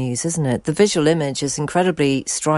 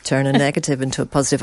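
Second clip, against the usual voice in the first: put-on quick, breezy American accent with a laugh; 2 semitones lower, much faster than usual. Host mocking a positivity slogan in an American accent. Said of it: "I've affected an American accent there".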